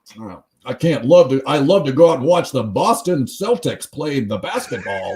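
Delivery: mock clumsy American accent; bad American accent. Host mimicking a Scottish actor's garbage American, badly faked American accent. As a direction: lightly imitate an actor botching an American accent. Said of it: "his American accent is straight garbage".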